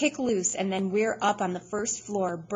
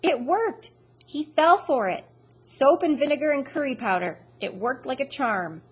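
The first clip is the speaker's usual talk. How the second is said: high, loud triumphant whoops; manic glee; 6 semitones higher, 6 dB louder than usual. A narrator's reading. Freak gloating after the trick, manic glee. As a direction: crow it like a gleeful maniac. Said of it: "Freak is laughing like a maniac and saying".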